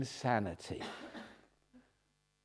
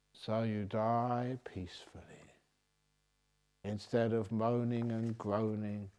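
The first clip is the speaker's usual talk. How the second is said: whispered peacefully; 2 semitones lower, 7 dB quieter than usual. Acted. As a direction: breathe it out gently. Whispered gentle line.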